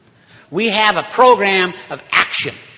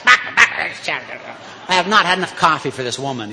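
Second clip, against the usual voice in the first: laughing; slower than usual. Real, not acted. Amused complaint.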